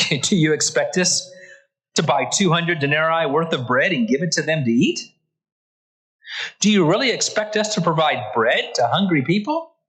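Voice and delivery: mock-incredulous, voice climbing at the end; incredulous question. Preacher voices disciples questioning Jesus, incredulous. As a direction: question it in disbelief, rising on the last words.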